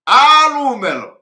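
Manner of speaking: loud, high, drawn-out cry of Alumelo; imitated shout. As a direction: wail it out like he's being beaten. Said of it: "started shouting".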